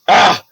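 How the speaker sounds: sudden high "ah"; acted short cry. Game master during the guards' shooting, short acted cry. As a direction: let out a brief mock cry.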